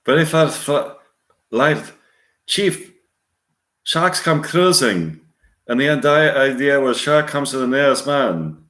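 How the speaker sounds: attempted Irish accent; Robert Shaw, Irish accent. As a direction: tell the shark tale with an Irish lilt. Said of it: "Scene two, Robert Shaw continued".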